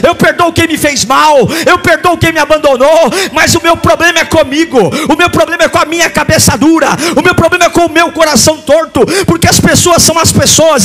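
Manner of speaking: fiery preaching. Acted. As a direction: preach it hard to the congregation. Preaches at full force.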